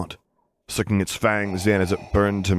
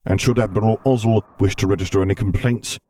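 Darth Vader voice; 3 dB louder than usual. Acted.

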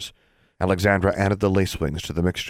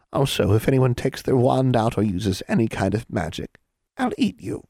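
higher voice rising to a squeaky threat; threatening hag; 5 semitones higher than usual. A narrator's reading. Hag warns children against using magic, threatening. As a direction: lay down the rule, end on menace.

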